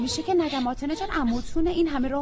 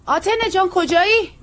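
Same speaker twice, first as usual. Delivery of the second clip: loud call across the yard, pitched up; raised calling voice; 7 semitones higher, 7 dB louder than usual. Acted. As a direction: call her name from the house.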